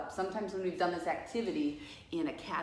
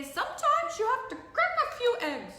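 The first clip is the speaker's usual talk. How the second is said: high, hammed-up TV cook accent; badly faked accent of a famous cook, pitched way up; Julia Child; 6 dB louder than usual. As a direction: do a terrible, loud, high-pitched chef's accent. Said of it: "like Julia Child would say".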